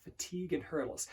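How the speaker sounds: slow, soft repetition to oneself; thoughtful mantra. Shown as a demonstration. Coach thinking through an affirmation, slow and soft. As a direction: let each phrase sink in, quietly. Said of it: "as you're thinking through".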